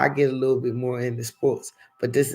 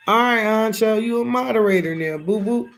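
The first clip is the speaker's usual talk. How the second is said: higher and louder, quick happy news; excited announcement; 9 semitones higher, 5 dB louder than usual. Real, not acted. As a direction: celebrate making him moderator. Announcing new moderator to viewer.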